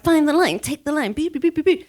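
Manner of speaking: high, bouncy inner chant; playful excitement. Retold or imitated. Rider retells picking her line off-road, gleeful excitement. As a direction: zip along with high, playful noises. Acting zippy off-road riding.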